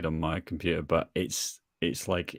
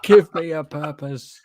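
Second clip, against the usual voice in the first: pleading robot voice; 7 semitones higher, 6 dB louder than usual. Pretend. Quoting robot meme.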